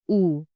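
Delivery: OO said with fully rounded lips; a pure long "oo", lips rounded. Shown as a demonstration. Teacher modelling the German U for learners, rounded lips. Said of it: "Round your lips and say".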